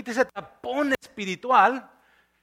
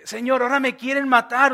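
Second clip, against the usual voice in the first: higher, imitated plaintive protest; mock complaining; 4 semitones higher than usual. Preacher re-quoting Elías complaining to God, mock plaintive. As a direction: briefly mimic a complainer. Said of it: "se está quejando".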